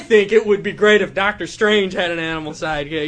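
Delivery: lightly voiced pageant contestant, slowing down; mock earnest pageant reply, breaking into laughter; beauty pageant answer. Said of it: "talk like I've just been asked a question in a beauty pageant".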